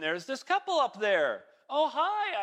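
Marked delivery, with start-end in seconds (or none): 1.7-2.4 retold greeting. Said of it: "I said".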